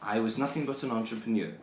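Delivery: lightly voiced Scottish villain, indignant; Burke the bodysnatcher. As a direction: defend the grave-robbing business with mock pride. Keeps playing Burke the bodysnatcher.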